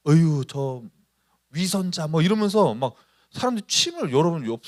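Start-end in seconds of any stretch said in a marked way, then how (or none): 0.1-2.1 mocking. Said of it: "조롱하는 거예요".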